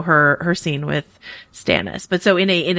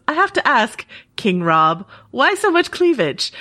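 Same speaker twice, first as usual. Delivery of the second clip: mock teasing question, pitched much higher; a lightly voiced actor ribbing a co-star; imitating Nikolai Coster-Waldau; 5 semitones higher than usual. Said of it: "Nikolai Coster-Waldau goes".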